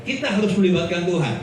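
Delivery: brisk, rattled-off echo of the slogan; brisk repeated slogan. Shown as a demonstration. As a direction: rattle it off quickly like a well-worn saying. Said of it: "Betul nggak?".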